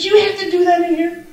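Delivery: quick, laughing imitation of a fed-up husband; laughing quote of husband. Wife imitating her exasperated husband in the car, laughing. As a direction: rattle it off, half laughing. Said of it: "He goes".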